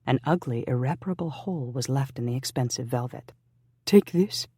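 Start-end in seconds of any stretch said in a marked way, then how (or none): 3.8-4.5 higher and louder, pressing; urgently. Acted. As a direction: push it on him in a hurry. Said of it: "she offered urgently".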